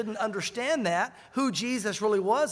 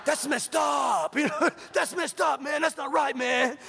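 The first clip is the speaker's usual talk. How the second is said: higher, slow, shouty buddy voice with a laugh; imitating Pancho; 4 semitones higher, slower than usual. Pastor mimics friend Pancho to the congregation, hammed-up shout. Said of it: "that's how he talks".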